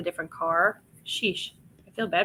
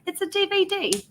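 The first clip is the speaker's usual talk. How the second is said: put-on high, playful Australian accent on D V D; a mock Australian D V D; 10 semitones higher than usual. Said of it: "Is that how you say it with the accent?".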